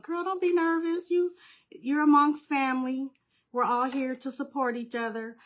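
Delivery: high-pitched pep talk to herself, easing down; self pep talk. Retold or imitated. Host telling herself she is among family, high pep talk. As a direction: give yourself a talking-to, starting high. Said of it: "I tell myself".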